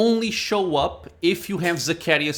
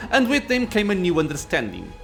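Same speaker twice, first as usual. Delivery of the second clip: arrogant lich. Acted. Lich speech.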